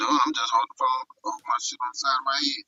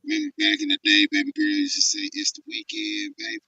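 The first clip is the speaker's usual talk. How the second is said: muffled phone audio, cutting out; 13 semitones higher than usual. Real, not acted. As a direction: sound muffled over a bad phone. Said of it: "you sound muffled, bruh".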